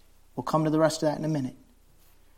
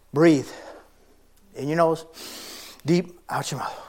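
calm breathing cue. Shown as a demonstration. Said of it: "This isn't a breathing exercise".

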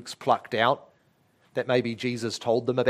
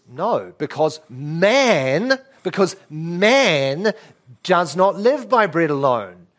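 slow, emphatic declaration; firm refusal; 3 semitones higher, 4 dB louder, slower than usual. Acted. Jesus answering the devil's temptation, firm and emphatic. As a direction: refuse firmly, drawing out each key word. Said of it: "And Jesus says".

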